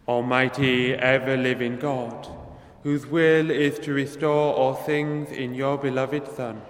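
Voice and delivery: measured, solemn prayer voice; liturgical prayer. Acted. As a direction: pray it aloud before the congregation. Priest prays the collect.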